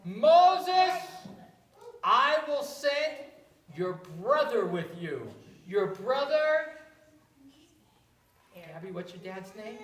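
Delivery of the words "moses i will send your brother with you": booming God voice, much louder; God's deep voice. Acted. God speaks to Moses, booming and loud. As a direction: boom out the name. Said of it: "God has a deep voice".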